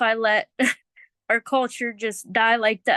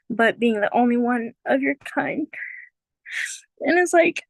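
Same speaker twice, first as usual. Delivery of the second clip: holding back tears; 5 semitones higher than usual. Real, not acted. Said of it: "Oh my God, I don't wanna cry".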